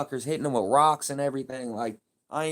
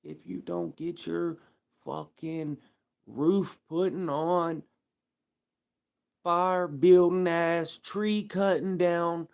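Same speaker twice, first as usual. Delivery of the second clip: slow, drawn-out mock bigot insult; hammed-up slow redneck taunt; mock redneck heckler; 3 semitones higher, much slower than usual. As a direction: drag each word out like a hateful local. Mock racist rant at immigrants.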